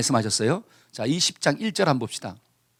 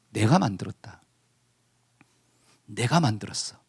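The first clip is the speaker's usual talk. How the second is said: lightly voiced God, low and softer; God's solemn declaration; 9 semitones lower, 5 dB quieter than usual. God telling Jonah who made all things, low and solemn. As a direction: state it low and quietly, with pauses. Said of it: "지금 하나님이 말씀하는 거예요".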